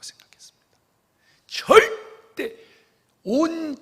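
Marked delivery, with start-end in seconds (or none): 1.5-2.6 절대 drawn out very slowly, much higher and louder; emphatic stress. Real, not acted. Preacher insisting to the congregation on 절대, high, loud and slow. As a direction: hammer the word 절대, stretched long.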